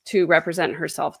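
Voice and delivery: dry, understated sarcasm; mock praise, delivered almost straight; sarcastic. Real, not acted. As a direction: say it as if obviously absurd. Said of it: "That's sarcasm".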